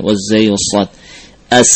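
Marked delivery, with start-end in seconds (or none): 1.5-1.7 "As" ending in a long sharp S; whistling sibilant. Shown as a demonstration. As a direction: let the S of "As" whistle. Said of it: "ini ada suara". ("As" dengan desis siulan khas)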